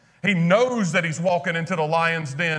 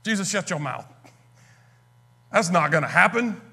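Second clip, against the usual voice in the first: Peter's protest; 4 semitones higher, faster than usual. Retold or imitated. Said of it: "Peter said".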